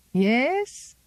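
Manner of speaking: high, insistent "Yes?"; knowing prompt. Acted. Old Zélie pressing Miranda for an answer, high.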